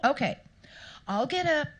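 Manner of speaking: fed up but still obliging; exasperated. Retold or imitated. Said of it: "And he said".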